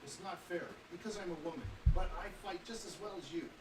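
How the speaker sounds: lightly voiced indignant sister. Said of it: "a higher voice that says".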